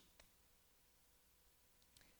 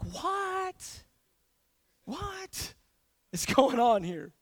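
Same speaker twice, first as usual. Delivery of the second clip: stunned disbelief; 5 dB quieter, much slower than usual. Acted. Friend watching the driver pray, stunned disbelief. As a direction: drop your jaw, you can't believe it.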